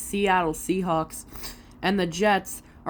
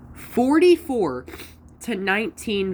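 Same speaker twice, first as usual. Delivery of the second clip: surprised; 6 semitones higher, 3 dB louder than usual. Real, not acted.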